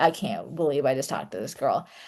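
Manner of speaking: mock appalled, disgusted, can't-believe-it tone. Retelling how a visitor walked away from the book: imitating someone's disgust. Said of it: "shaking his head in, like, in disgust".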